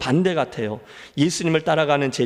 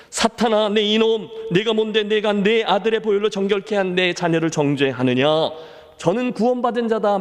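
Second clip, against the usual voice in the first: loud rebuke; 4 semitones higher than usual. Acted. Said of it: "일부러 큰 소리로 나타나셔서 사탄을 꾸짖으세요".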